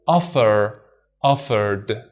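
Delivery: offer, offered with no R, British style; other accent. Shown as a demonstration. Teacher showing the ED ending stays d without the R. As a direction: drop the R in both. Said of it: "So we say".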